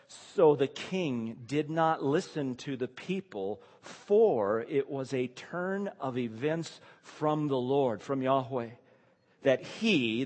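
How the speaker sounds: slow, deliberate scripture reading; solemn scripture reading. Acted. Preacher reads the author's key statement to the congregation, slowly and deliberately. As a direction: read the verse out weightily, drawing out key words.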